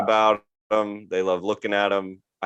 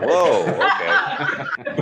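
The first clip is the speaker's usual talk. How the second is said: taken aback; 4 semitones higher, much slower than usual. Real, not acted. Reacting to grandma's list.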